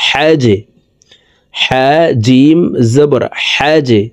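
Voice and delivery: "হ্যাজে" with the j bounced downward at the end; downward push on j. Shown as a demonstration. Teacher showing viewers qalqalah on jim, pushed j. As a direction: slowly spell it, popping the final j of "হ্যাজে". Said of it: "নিচের দিকে ধাবিত করে ধাক্কা দিয়ে উচ্চারণ করব".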